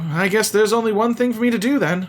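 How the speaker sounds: lightly voiced menacing brother. Brother threatening his sister with re-education, lightly voiced. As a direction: calmly threaten punishment.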